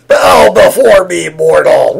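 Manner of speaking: booming slow villain decree; dark lord. Pretend. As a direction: loom over them like a dark lord. Villain cohost dramatic entrance.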